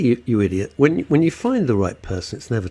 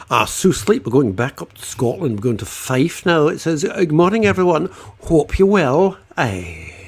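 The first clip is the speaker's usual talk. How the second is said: put-on Scottish accent; 3 semitones higher than usual. Presenter reads a viewer's greeting from Fife, put-on Scottish accent. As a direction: read it out with a touch of Mrs Doubtfire Scots. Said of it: "your Scottish accent sounds like Missus Doubtfire".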